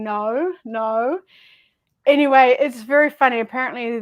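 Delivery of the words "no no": "No, no" with gliding Aussie vowels; Australian "no". Retold or imitated. Quoting people recorded for the reel, "No, no" in Australian vowels. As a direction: say each "no" as a drawn-out Australian one. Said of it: "the way Australians say no".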